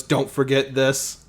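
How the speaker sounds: slow, slightly robotic delivery; measured words, like a machine speaking. Acted. Weld handing back a lump of coal, slowly and robotically. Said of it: "said that really robotically".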